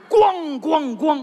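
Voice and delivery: heavy thuds voiced as words; mimicking nightly banging from upstairs; imitated banging. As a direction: sound out each slow, booming clang. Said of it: "能听见动静".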